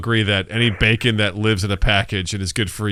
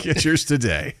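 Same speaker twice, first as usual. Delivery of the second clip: chipper 1950s ad; 2 semitones higher, 3 dB quieter, slower than usual. Pretend. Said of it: "slogan for a commercial".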